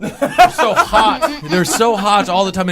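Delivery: laughing. Acted. Joke about ghosts.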